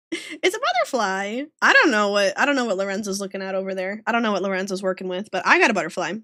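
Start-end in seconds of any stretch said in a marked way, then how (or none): 0.1-1.4 cutesy insistence. Pretend.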